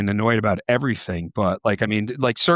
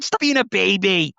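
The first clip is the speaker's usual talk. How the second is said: high-pitched scolding, no real shout; raised-pitch retold yell, mild in volume; mock yell; 6 semitones higher than usual. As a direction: imitate a kid telling off parents. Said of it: "she would yell at us".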